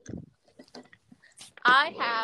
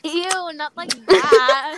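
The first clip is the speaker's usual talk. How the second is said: disgusted; 4 semitones higher, 7 dB louder, much slower than usual. Real, not acted. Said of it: "reacting to gross chewing".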